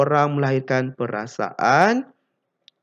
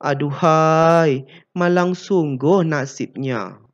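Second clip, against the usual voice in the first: sympathetic sigh; 3 semitones higher, slower than usual. Shown as a demonstration.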